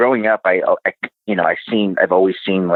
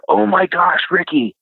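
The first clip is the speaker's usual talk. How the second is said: mock shocked outburst, pitched way up; shocked sister; 12 semitones higher than usual. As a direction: imitate a sister's high, startled exclamation. Sister's shocked reply, acted in retelling.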